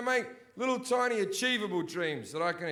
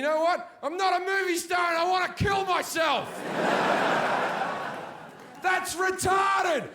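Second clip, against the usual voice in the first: high, loud comic rant; shouting the West End rant; shouted rant; 9 semitones higher, 3 dB louder than usual. Real, not acted. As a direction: bellow the despair for laughs. Ranting climax of the bit.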